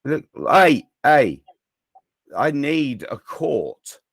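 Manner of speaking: loud call for attention; hey, hey, over here, loud. Real, not acted. Calling for attention in the room.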